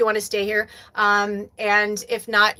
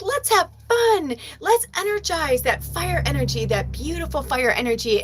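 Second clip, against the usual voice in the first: playful Leo voice; 5 semitones higher than usual. Retold or imitated. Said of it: "Leos are like".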